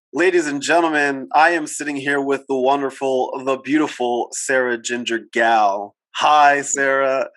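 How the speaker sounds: measured ladies-and-gentlemen announcement; announcer introduction. Acted. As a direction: present the guest like an emcee.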